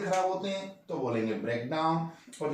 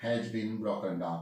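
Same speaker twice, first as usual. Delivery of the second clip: slow model sentence; 5 semitones lower, much slower than usual. Shown as a demonstration. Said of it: "अगर हम ये बोलें".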